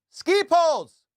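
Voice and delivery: incredulous shout. Real, not acted. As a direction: blurt it out in shock. Incredulous comic exclamation.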